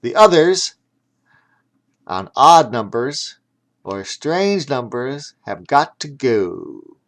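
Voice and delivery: loud yelled ref call; ref yelling. Acted. The ref yells the rules at all the teams, loud. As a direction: call it out loud across the field. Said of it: "The ref yelled out".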